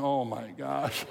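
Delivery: slow, drawn-out mock exasperation; imitating an exasperated mother; eye-rolling mom. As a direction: stretch it like a mom rolling her eyes. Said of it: "rolling her eyes going".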